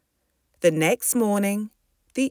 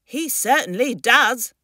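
mother's proud, slightly higher voice; proud agreement; 5 semitones higher than usual. Acted. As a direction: agree with a touch of pride. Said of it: "agreed Dora proudly".

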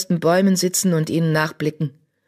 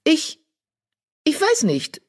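put-on dazed young she-cat; 12 semitones higher than usual.

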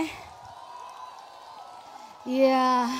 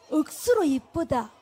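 softer, careful repeat of 억수로 이쁘다 in Busan dialect; careful Busan imitation; 4 dB quieter than usual. Shown as a demonstration. Singer copying the audience's Busan phrase, softly and carefully.

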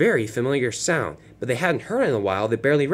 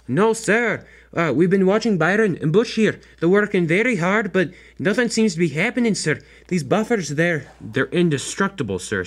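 high engine voice; 6 semitones higher, 3 dB louder than usual. Acted. Engine voice explains to boss.

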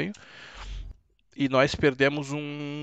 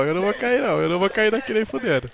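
excited; 7 semitones higher, 6 dB louder, faster than usual. Real, not acted. Streamer struggling in a game.

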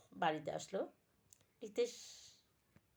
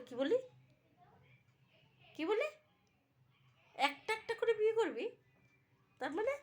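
shocked father; 13 semitones higher than usual. Acted. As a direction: shriek it in shock. Father shocked at five weddings. (হতভম্ব বাবার চিৎকার)

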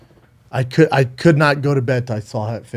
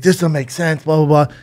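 raised-pitch mock protest; a touch of outrage, higher voice; retold furious dad; 5 semitones higher than usual. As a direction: imitate an indignant father, lightly acted. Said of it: "He's furious".

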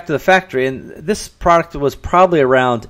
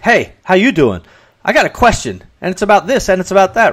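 curt reading; 4 semitones higher than usual. Retold or imitated. Recipient hearing the email as mildly brusque and pushy. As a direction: read it as if the sender is annoyed and demanding. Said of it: "But when the other person reads it, they're like".

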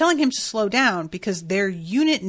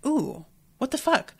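higher-pitched mock-startled "ooh"; retold jolt of surprise, pitched up; startled reaction; 5 semitones higher than usual. Retells own reaction to reading.

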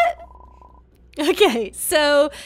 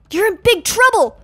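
lightly voiced officer, pitched up; stern officer; 6 semitones higher, 4 dB louder than usual. Security tells the players they're caught, stern. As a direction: scold like an airport officer.

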